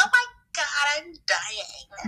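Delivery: imitating a friend's dramatic suffering; high start sinking into a dying groan; hammed-up pain complaint; mock agony. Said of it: "Every time you're in pain".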